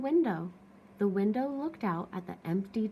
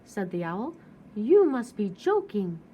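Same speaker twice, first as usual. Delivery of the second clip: louder, higher mocking disbelief; scoffing surprise; 4 semitones higher, 8 dB louder than usual. Owl scoffing at the cactus offering a hug.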